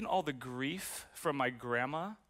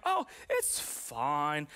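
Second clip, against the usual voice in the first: slow dismissive fine; much slower than usual. Retold or imitated. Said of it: "I'm like".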